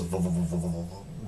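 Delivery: repeated buzzing "v" sounds, fading away; stuttered vvv noise of a lightsaber; imitated lightsaber swoosh. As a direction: mimic a blade swinging past. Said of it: "the blade just goes".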